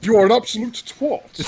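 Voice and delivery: mock Bradford accent. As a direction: declare it in hammed-up Bradford. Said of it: "sounds like someone from Bradford".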